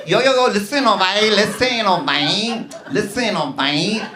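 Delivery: insistent, quarrelling Latina; arguing Latina woman. Retold or imitated. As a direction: act out a fiery argument on the subway. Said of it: "they were like".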